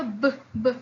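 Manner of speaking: b said alone with voice; teacher contrasting voiced b; voiced sound. Shown as a demonstration. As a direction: voice b on its own. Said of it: "it is hard to say".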